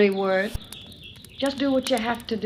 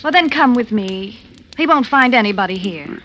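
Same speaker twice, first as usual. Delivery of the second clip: louder, urgent plea; pleading; 7 dB louder than usual. Acted. Rory begging Judd to flee with her, urgent pleading. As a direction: push him to come with her.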